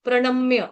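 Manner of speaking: प्रणम्य with retroflex ण as in बाण; teacher models retroflex n; clear retroflex ण. Shown as a demonstration. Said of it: "अण बाण का".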